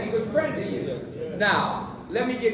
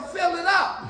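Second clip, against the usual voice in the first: laughing punchline; 10 semitones higher, 5 dB louder, slower than usual. Retold or imitated. Punchline to pilot.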